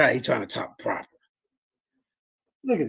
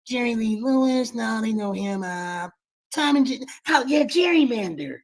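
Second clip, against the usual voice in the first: mock pompous thinker; 4 semitones higher than usual. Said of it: "that's his trick".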